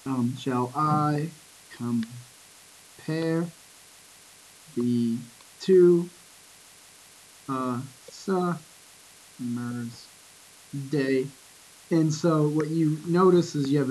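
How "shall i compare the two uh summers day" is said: "Shall I compare" in slow pairs, weight on I and on the end of compare; unstressed then stressed syllables. Shown as a demonstration. Teacher marks the meter of "Shall I compare", slow, alternating unstressed and stressed. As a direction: split "Shall I compare" into beats, long pauses between. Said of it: "an unstressed followed by a stressed syllable".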